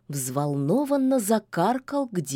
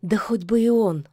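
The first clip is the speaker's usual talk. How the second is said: dismissive; 3 semitones higher, 4 dB louder than usual. Acted. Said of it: "отмахнулась Яга".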